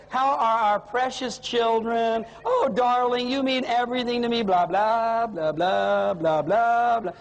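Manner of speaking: hammed-up lovey-dovey, into singsong blahs; milking it. Husband milks the call to his wife, mock syrupy sweet talk. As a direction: lay on mock devotion, then drift into singsong filler. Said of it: "He starts to milk it".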